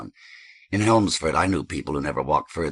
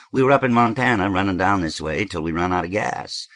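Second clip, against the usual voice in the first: lightly voiced traveler explaining himself; Tom; 2 semitones higher, 5 dB louder than usual. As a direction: explain the trip with a lift.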